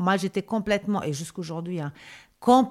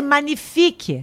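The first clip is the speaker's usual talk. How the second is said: catchphrase; 6 semitones higher, 6 dB louder than usual. Shown as a demonstration. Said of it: "le magnifique, ma chérie".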